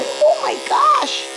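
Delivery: high, drawn-out cooed alarm; mock dismay. Groomer sympathizing with a fighting puppy, mock dismay. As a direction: play up dismay in a high pet-talk voice.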